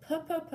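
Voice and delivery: crisp puh, puh, puh with popped p; modeling puh sounds. Shown as a demonstration. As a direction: pop each puh sharply.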